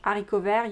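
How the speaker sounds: haricot vert in French, starting on the A; silent H. Shown as a demonstration. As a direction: leave the H off haricot. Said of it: "there's no H".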